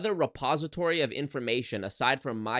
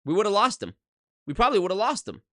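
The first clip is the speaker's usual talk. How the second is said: emphatic; 7 semitones higher, 4 dB louder than usual. Real, not acted. Emphatic point, raised voice.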